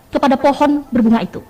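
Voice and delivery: "pohon" given extra weight in the line; stress on POHON. Shown as a demonstration. Teacher demonstrates the last key word, stressed "pohon". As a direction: lean on "pohon". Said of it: "rintik, dan pohon".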